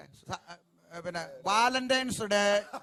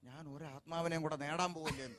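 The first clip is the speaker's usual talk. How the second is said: mock excuse; 8 semitones lower, 13 dB quieter than usual. Mocking a young believer's excuse.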